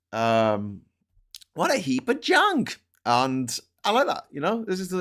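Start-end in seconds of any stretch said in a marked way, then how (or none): 1.5-2.8 Han Solo quote. Retold or imitated. Quoting Han Solo's ship insult.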